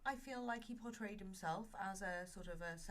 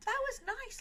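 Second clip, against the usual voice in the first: said through laughter, much higher; laughing; 6 dB louder than usual. Real, not acted. Laughing while speaking.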